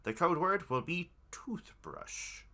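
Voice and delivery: cultist voice. Acted. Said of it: "you switch cultist voices".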